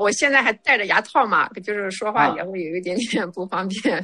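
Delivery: slightly slurred speech through braces; speaking around teeth braces; wearing braces. Real, not acted. (戴着牙套略微口齿不清)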